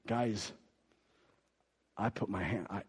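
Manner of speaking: soft, almost whispered; hushed. Acted. John telling the guys, very quiet and hushed. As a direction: fade to a whisper.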